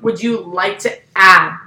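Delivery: slow, deliberate weight on "add"; important upsell question. Retold or imitated. Worker upselling queso to a customer, weighty on "add". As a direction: lean on "add", drawing the question out. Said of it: "And it's a very important".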